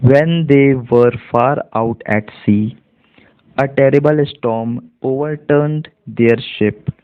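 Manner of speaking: slow, evenly spaced model reading; measured classroom reading in Indian English; read-aloud demonstration. Shown as a demonstration. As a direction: read the passage slowly, word by word, for learners. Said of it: "इसको हम पूरा एक साथ पढ़ते हैं".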